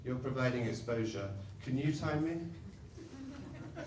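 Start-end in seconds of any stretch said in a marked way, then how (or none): 1.6-3.8 laughing. Real, not acted. Laughing request to audience.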